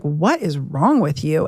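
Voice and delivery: low, slow, drawn-out exasperation; exasperated retort. Retold or imitated. Wife confronting husband about his mood, slow exasperation.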